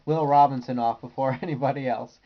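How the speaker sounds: laughing through the corrected name; laughing correction. Shown as a demonstration. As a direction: correct yourself with a chuckle. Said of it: "I just wanna say".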